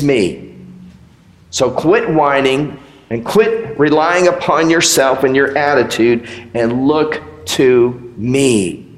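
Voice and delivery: lightly voiced firm, fatherly rebuke; a hint of stern God correcting. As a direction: set them straight, gently stern. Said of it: "When God says".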